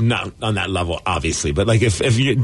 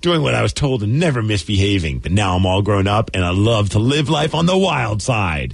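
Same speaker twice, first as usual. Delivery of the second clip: low, slow seductive read; sultry ad voice; 3 semitones lower, slower than usual. Retold or imitated. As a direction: purr it like a racy personal ad. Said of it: "I'm like".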